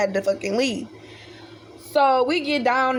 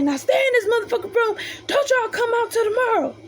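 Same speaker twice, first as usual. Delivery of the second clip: higher-pitched imitation of a stern brother; brother's stern order; 11 semitones higher than usual. Brother sends the girls to their room, mock stern. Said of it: "He like".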